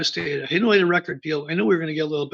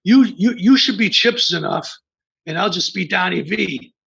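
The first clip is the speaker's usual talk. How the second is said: louder, raised pitch, teasing a friend; playful loud suggestion; 3 semitones higher, 6 dB louder than usual. Retold or imitated. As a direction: pitch the nickname loudly like a joke. And Donnie goes.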